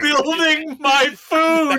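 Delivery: slow, high, laughing through it; laughing mock quote. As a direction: savor the phrase while laughing. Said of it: "laughing reaction".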